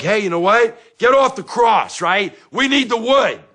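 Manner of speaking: very high, loud sarcastic shout; yelling back. Retold or imitated. Dad shouting down his screaming ex-wife, loud and high. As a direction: scream the put-down right back at her.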